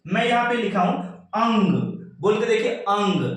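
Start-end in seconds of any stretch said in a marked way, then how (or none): 1.4-1.9 अंग with a firm nasal ं through the nose; slightly hard nasal. Shown as a demonstration. Teacher shows how anusvar sounds, slightly hard nasal. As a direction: press a little on the nasal in अंग. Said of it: "थोड़ा सा कठोरता आ रहा है".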